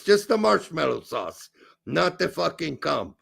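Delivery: put-on comic German accent; comic German-accented English. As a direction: keep up the mock German accent. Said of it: "you doing the German accent would be great".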